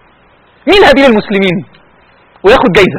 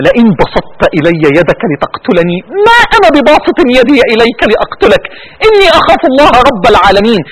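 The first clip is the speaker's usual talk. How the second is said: crying recitation; 3 semitones lower than usual. Real, not acted. Preacher weeping as he recites Abel's words. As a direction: recite it while choking up.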